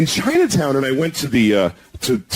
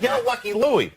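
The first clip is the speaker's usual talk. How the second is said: higher, tough-guy jab on Lucky Louie; lightly voiced Sopranos heavy; Paulie Walnuts jab; 8 semitones higher than usual. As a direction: poke the words at him like a wiseguy. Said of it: "jabbed me in the chest like that".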